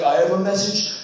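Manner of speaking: high, otherworldly alien voice. Pretend. Youth leader plays an alien speaking to humanity, high and goofy. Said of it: "He's like".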